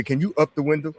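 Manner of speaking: put-on Geechee accent. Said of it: "in her Geechee voice".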